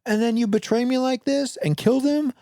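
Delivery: a hammed-up sense of betrayal; mock betrayed fury. Player scolding the traitor ghouls in mock outrage. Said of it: "I was like".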